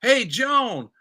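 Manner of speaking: lightly voiced quip in the style of a rock singer; cheeky rocker blurting a joke; blurted out. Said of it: "he blurts out".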